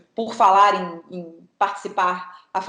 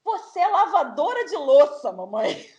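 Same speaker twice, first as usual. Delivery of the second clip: laughing quote; 4 semitones higher, slower than usual. Retold or imitated. Repeating child's line, laughing.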